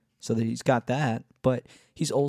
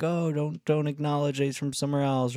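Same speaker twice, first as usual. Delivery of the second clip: higher-pitched mock scolding; cringing inner critic; 5 semitones higher than usual. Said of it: "this cheesy cringy-, cringiness of".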